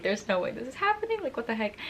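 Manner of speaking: high-pitched incredulous recollection; retold disbelief. Girlfriend tugged back to him, high disbelief.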